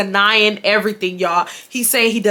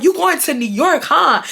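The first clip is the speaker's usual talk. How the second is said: higher-pitched mock-curious question; mocking nosy imitation; 6 semitones higher than usual. Ex changing the subject on the phone, mimicked as nosy. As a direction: mimic his prying with a raised pitch.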